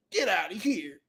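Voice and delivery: hushed, breathy get out; whispered mock dismissal. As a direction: whisper it like a sulking loser. Mad mechanic muttering.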